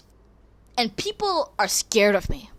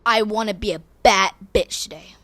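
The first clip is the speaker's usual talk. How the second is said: mirror pep talk; 6 dB louder than usual. Retold or imitated. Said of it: "I say in the mirror".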